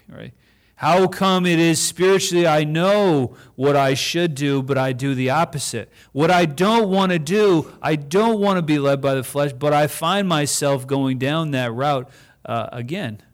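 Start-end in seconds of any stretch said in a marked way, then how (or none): 0.8-9.5 higher, louder pleading complaint; frustrated plea. Retold or imitated. Pastor voicing Paul's struggle with the flesh, pleading. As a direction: wrestle with it aloud.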